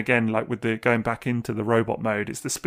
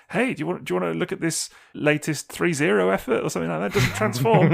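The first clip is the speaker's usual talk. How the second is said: high, bright-eyed fake enthusiasm; mock cheerful pitch; 7 semitones higher than usual. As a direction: pretend to be excited, voice up high. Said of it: "now I'm at the stage of, like".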